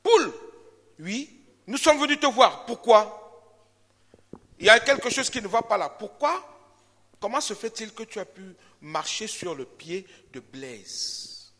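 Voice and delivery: hammed-up cat and dog confronting the hen; accusing busybodies. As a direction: corner the hen with righteous fuss. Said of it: "Ils vont voir qui? ... la poule".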